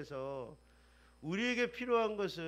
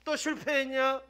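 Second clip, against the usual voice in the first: mock scolding; 3 semitones higher, 5 dB louder than usual. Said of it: "꾸짖지 않는다".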